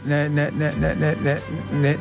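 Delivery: ordinary talk, nothing marked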